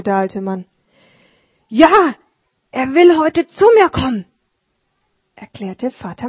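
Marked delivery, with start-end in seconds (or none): 1.7-4.2 higher, louder, proud; lightly excited old man; eager Martin. Acted. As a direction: announce the guest with joy.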